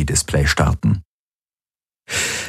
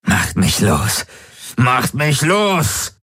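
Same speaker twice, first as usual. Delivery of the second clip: slow, higher screech; 7 semitones higher, slower than usual. A narrator's reading. The possessor screams at Kirai and Hox, slow screech. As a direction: screech the demand at them. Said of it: "kreischte er".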